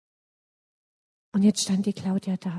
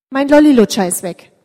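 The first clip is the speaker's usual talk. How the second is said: upset cry; 3 semitones higher, 12 dB louder than usual. Acted. Claudia finds her lollipop missing.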